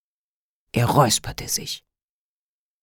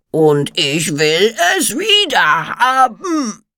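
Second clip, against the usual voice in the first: shouting; 6 semitones higher, slower than usual. A narrator's reading. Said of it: "brüllte er".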